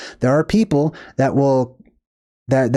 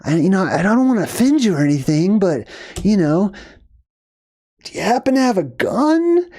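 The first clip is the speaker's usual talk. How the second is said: mock nervous request that ends much higher; walking on eggshells; 3 semitones higher than usual. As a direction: hedge every word, then squeak out the question. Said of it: "walking on eggshells".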